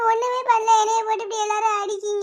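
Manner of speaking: tearful, whiny grievance; wailing complaint. Acted. Daughter protests everyone beats her, wailing complaint. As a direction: whine it through put-on sobs. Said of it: "ஒப்பாரி தான் வச்சிட்டு இருக்கியா".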